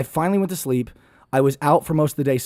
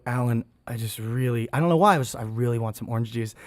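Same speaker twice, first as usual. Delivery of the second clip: weak quiet voice; 4 semitones lower, 5 dB quieter than usual. Retold or imitated. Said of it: "and I go".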